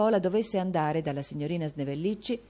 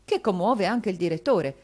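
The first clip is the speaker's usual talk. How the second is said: tragic tone; 3 semitones higher, 5 dB louder than usual. Acted. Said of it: "nel suo solito tono tragico".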